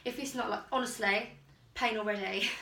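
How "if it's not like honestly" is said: normal talking voice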